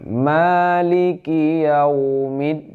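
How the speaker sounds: high, slow melodic chant; Quran recitation. Shown as a demonstration. Teacher reciting the third verse, high slow chant. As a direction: sing the verse out slowly and evenly. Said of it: "Ini ki, ki ya".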